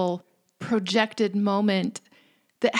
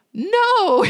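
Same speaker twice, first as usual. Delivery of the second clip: put-on child's flat refusal; 12 semitones higher, 6 dB louder than usual.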